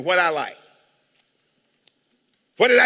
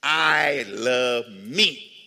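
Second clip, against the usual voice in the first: mock self-lover; 7 semitones lower, much slower than usual.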